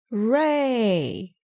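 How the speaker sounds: high, loud joyful cheer; cheering hooray. Acted. Detective happy the squeak is gone, loud cheer. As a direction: celebrate out loud.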